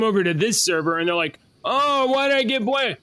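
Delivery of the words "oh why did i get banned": high-pitched whiny imitation; mocking, high plaintive protest; mock complaining. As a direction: whine it like a banned kid. Voicing banned kids' complaint.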